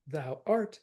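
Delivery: "art" stressed after light "thou". Shown as a demonstration. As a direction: lean on "art". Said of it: "is correct".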